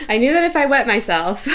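amused, laughter in the voice; laughing. Real, not acted. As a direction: repeat it while cracking up. Repeats the misheard line, cracking up.

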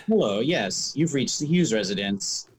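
polite receptionist phone voice; telephone voice. Pretend. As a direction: answer like a formal phone greeting. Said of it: "My telephone voice".

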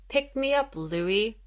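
flat, emotionless monotone voice. Retold or imitated. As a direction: say it in a cold monotone, no feeling at all. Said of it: "she just says in the monotone voice".

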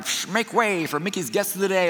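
static hiss, then driver's announcement; imitated loudspeaker announcement. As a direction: mimic a driver clearing the way over a speaker. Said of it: "the driver is on the loudspeaker saying".

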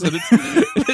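breaking into laughter mid-sentence; can't stop laughing while talking. Real, not acted. Laughing retelling Santa photo.

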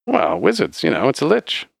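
high-pitched, rambling barkeep; chatty bartender. Acted. Bartender explains wizards to adventurers, high chatty character voice.

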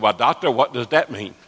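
imitating a tongue-tied preacher's puzzled question; thick-tongued question to the doctor; lightly put-on speech impediment; Uncle Buddy Robinson. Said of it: "Uncle Buddy was tongue-tied".

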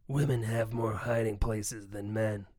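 low gruff soldier impression; Snake voice. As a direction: growl it like a hardened soldier. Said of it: "That was a good Snake voice".

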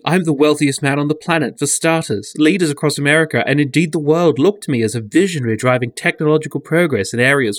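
lightly voiced boastful billionaire reading his own article; put-on reading voice. Reading a spoof billionaire's article aloud to a co-host, lightly put-on voice. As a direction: read it as a self-important, needy billionaire, lightly. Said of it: "I'm reading it in this voice".

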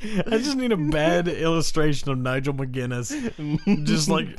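laughing through the words; half-laughing, giggling while asking; horrified amusement. Real, not acted. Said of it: "Why is this so funny?".

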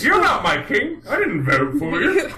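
high, indignant laughing objection; protesting peasant. Retold or imitated. Townsperson rejecting the king at the gates, indignant. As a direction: object as a miffed commoner, amused.

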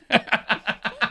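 rapid popping nail gun sounds; nail gun noise. Retold or imitated. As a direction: mouth imitation of a nail gun. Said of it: "That's my impression of a nail gun".

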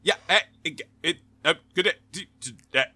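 choppy, cutting-out call; radio breaking up. Pretend. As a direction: stutter like a dropping connection. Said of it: "you're breaking up".

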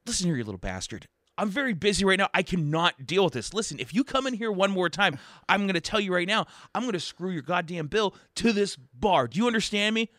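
furious bartender. Acted. Bartender threatens the duck, loud angry rant. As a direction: threaten the little duck, building to yelling.

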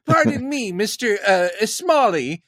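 high, polite fanboy questioner; impression of himself. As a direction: raise hand and ask, pitched high. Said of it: "Is that a good impression of me?".

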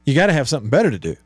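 put-on fast, thick New York accent. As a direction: rattle it off like a New York radio host. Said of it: "in his New York thick accent".

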